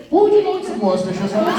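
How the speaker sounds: high, loud fake London accent; exaggerated, comic London-accent offer; mock London accent. Shown as a demonstration. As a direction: ham up a London accent on request. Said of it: "do a nice London accent".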